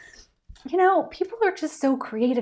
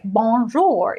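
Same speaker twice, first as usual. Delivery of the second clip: bad American-accented French, drawn out; worst American accent; 3 dB louder than usual. Student recalling her horrible college French, in a terrible American accent. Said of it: "the worst American".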